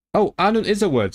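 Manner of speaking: real surprise at finding the word; surprised discovery. Real, not acted. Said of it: "Oh, shit".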